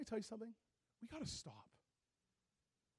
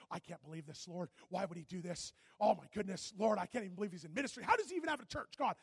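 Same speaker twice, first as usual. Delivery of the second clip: indignant rant; 3 semitones lower, 5 dB louder than usual. Retold or imitated. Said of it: "I'm walking around like".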